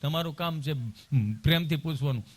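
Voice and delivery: deadpan male patient's comeback; unimpressed friend. Acted. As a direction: repeat it back without the sweetness. Friend echoes the sweet nurse's words.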